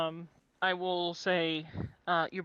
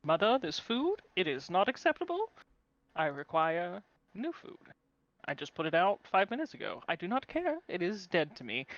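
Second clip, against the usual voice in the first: lofty, demanding pet voiced as royalty; haughty cat voice. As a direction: complain like a spoiled aristocrat cat. Cat demands food from owner.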